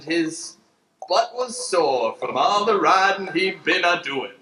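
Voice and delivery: folksy western storyteller narration; lightly drawled radio play narrator. Acted. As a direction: spin the yarn like an old radio narrator.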